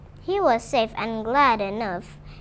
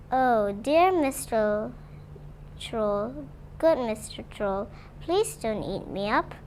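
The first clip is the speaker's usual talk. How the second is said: middle goat afraid; 3 dB quieter than usual. Acted. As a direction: plead quietly, scared of the troll. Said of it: "Middle Gruff was in a great fear".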